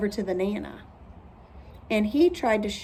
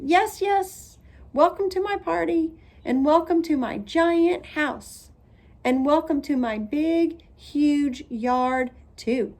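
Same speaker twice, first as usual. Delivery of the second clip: boastful welcome; 6 semitones higher, 3 dB louder than usual. A narrator's reading. Lucille boastfully welcomes guests.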